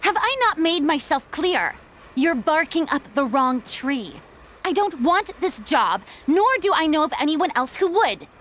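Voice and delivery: curt, irritated brush-off; harsh refusal. Acted. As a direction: shut them down sharply. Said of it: "I didn't mean for that to sound so harsh".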